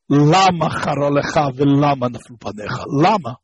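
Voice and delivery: each lama stressed as LA-ma; mileil stress. Shown as a demonstration. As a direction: punch the first syllable of lama. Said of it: "is mileil".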